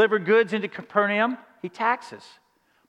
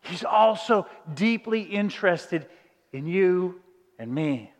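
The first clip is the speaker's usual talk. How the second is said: slow, soft and lower; tender; 3 semitones lower, 3 dB quieter, slower than usual. Real, not acted. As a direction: say it gently, slowly. Sermon's tender climax.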